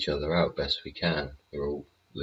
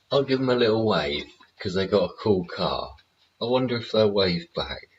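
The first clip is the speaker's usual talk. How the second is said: excited chatter; 5 semitones higher, 4 dB louder than usual. Real, not acted. Excited about the cool car.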